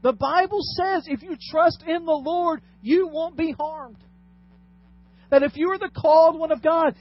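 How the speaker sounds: loud, high, emphatic preacher pitch; preaching tempter. Acted. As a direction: press the promise hard, like a preacher. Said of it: "the way he's saying it is".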